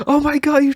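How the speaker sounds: excited and happy. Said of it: "like, all excited and happy".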